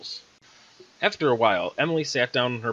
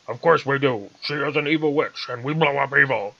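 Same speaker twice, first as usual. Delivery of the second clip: gruff general bark; 2 semitones higher, 5 dB louder than usual. Acted. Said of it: "the general farted back".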